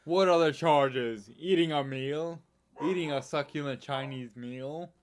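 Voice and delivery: milder take on the outraged arrested diner; man protesting his arrest. Acted. Quoting an arrested diner to the co-host, mock indignation. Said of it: "he was arrested in the U K".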